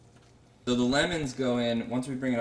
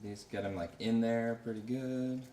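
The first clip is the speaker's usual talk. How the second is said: a hint of a Southern US accent, slower and softer; 3 dB quieter than usual. Real, not acted. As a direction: slip lightly into a Southern drawl. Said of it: "said that with a southern accent".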